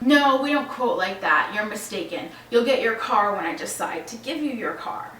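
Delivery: mildly aggressive mock rebuff; retold aggressive tone. Delivery man refusing a customer over the phone, mildly aggressive. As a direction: imitate a man curtly laying down his terms. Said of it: "aggressive tone with me".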